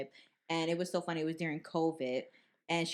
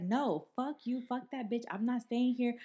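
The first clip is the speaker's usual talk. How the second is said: higher-pitched mock indignation; retold angry refusal; 6 semitones higher than usual. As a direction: act out a fed-up girlfriend refusing. Girlfriend refusing to stay, retold.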